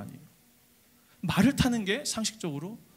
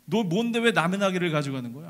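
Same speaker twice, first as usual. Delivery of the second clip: snapping owner. Acted. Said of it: "몰아붙이고 막 쏘아붙이는 거예요".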